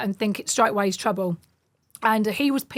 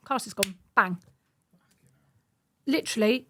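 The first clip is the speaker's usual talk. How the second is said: ordinary talk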